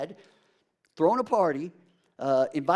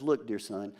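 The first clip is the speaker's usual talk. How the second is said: tender father. Acted. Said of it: "He says".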